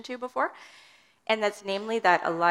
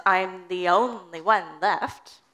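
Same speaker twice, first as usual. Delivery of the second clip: self-pitying Elijah; 6 dB louder, much slower than usual. Retold or imitated. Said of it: "Elijah says".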